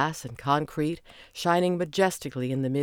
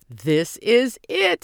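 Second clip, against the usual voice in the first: high, loud, slow and eager; can hardly stand still; barely contained excitement; 7 semitones higher, 7 dB louder, much slower than usual. A narrator's reading. Simon watching the limo arrive, thrilled. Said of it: "barely able to stand still".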